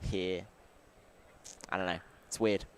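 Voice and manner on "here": two Australian heres. Shown as a demonstration. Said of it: "different ways Australians say it".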